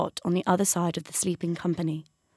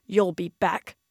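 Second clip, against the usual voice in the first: stormy cat; slower than usual. A narrator's reading. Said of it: "stormed the cat".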